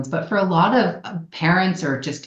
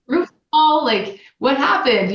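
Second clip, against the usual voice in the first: playful curious parent; 5 semitones higher than usual. Acted. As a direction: ask with mock amazement, stretching the words. Parent playfully asking kids what happened.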